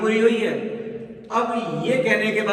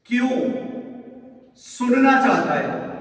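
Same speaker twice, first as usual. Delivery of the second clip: angry; 3 semitones higher than usual. Acted. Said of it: "गुस्से में बोल रहा है".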